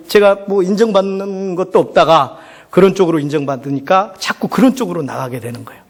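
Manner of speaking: usual speaking voice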